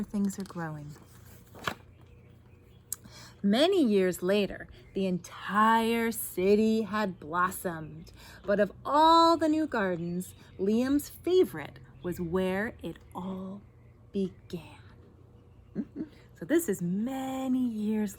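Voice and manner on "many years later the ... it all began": picture-book narration. A narrator's reading. Reader ends the garden tale for children, deliberate storytelling. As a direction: wind the story down to its close.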